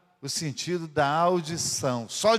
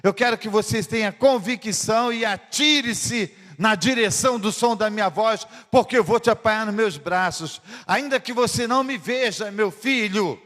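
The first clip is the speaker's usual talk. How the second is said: raised, pressing call to leap; urging father; 2 semitones higher than usual. Acted. Father urging his son to jump toward his voice. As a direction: urge him on, full of conviction.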